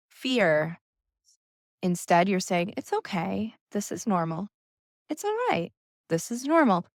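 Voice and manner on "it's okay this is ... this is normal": gentle, higher soothing reassurance; sweet voice to yourself. Shown as a demonstration. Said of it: "say it in that voice, in, like, a sweet voice".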